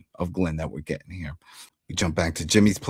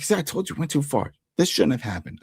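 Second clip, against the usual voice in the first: higher-pitched retold freak-out, easing off by the end; 6 semitones higher than usual. Retelling a crew boss upset that it went too far, mildly freaking out. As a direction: imitate someone agitated, voice raised in pitch. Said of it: "Sweeney's freaking out".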